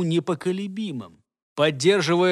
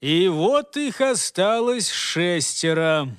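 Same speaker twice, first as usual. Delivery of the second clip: gleeful; slower than usual. Acted. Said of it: "довольно и взволнованно объявила темнота".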